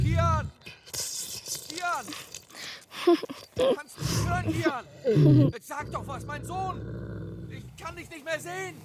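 high call from afar. Acted. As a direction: shout down into the pit. Father calling down the pit.

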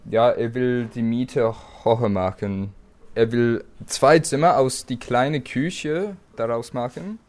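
German with an Australian English accent; English-accented German, slightly halting. Real, not acted. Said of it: "mein Deutsch ist so schlimm".

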